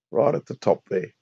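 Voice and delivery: hoarse voice from a head cold; rusty unused voice. Real, not acted. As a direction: talk through a real cold, a bit rough. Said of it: "Excuse my voice, I've got a terrible cold".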